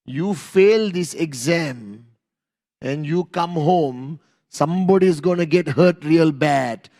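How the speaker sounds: lightly voiced parent laying down the law; imitated parent's warning. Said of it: "what did our parents tell us".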